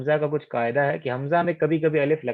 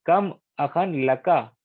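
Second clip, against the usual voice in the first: slow Arabic phrase; much slower than usual. Shown as a demonstration. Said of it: "यहाँ पर भी आप देखिए".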